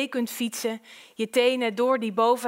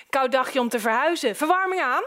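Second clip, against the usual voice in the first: breezy intrusive neighbour; 3 semitones higher than usual. Acted. Intrusive neighbour checks the heating.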